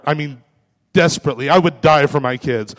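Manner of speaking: ordinary delivery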